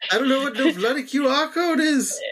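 put-on accent of a famous band. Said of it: "I was one of the Beatles in the sixties".

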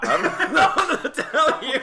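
laughing through the words. Real, not acted. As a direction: giggle it out, slow. Teasing banter about recording.

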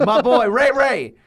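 slow, high and loud praise; hyped shout-out. Real, not acted. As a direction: cheer your buddy's name. Hyping a friend, drawn out.

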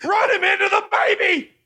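high shouted heckle from the crowd; heckling shout. Acted. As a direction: yell it like a rowdy fan.

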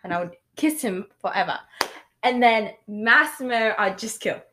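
wobbly put-on British; attempted British accent. Choosing whom to marry or kill, attempted British accent. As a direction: try to hold a British accent while answering. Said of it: "My accent".

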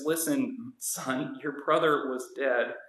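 soft, slow and tender; gently explaining to the son; gentle father. Retold or imitated. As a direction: reason with him gently. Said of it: "the gentleness of this response".

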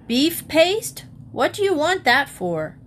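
lightly voiced child, high; child mishearing on purpose. A narrator's reading. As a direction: innocent high child asking.

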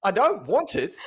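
put-on high crying little girl, half laughing; crying toddler voice. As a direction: imitate a sobbing child through a laugh. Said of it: "she's like".

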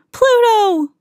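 high joyful shout to the dog; joyful cry. A narrator's reading. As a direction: greet the rescuer with delight. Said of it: "cried Donald".

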